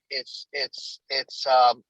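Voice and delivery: audio breaking up; choppy, dropping call signal; glitchy robotic call. Real, not acted. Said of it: "Oh, the audio is breaking up".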